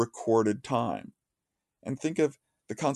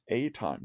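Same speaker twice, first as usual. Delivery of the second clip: "a" said as a full "ay", set apart; stress on a; 4 dB quieter than usual. Shown as a demonstration. Lecturer singling out a word for which there is a time, "a" stressed. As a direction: lean on "a", pronounced "ay", before "time". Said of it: "Not time, mind you, a time".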